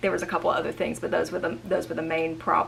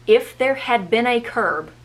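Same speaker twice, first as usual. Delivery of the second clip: higher, louder, slow mock emphasis; mocking quote; 5 semitones higher, 7 dB louder, slower than usual. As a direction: quote it back slowly, indignant. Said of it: "and I quote".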